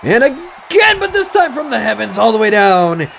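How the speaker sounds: lively play-by-play announcing; wrestling commentator. Acted. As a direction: call the match like a ringside commentator. Play-by-play of game match.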